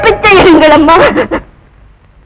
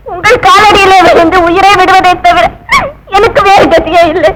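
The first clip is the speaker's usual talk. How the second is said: pleading through tears; a catch of crying in the plea; tearful pleading; 2 semitones higher than usual. Acted. Desperate wife begs at the woman's feet, tearful.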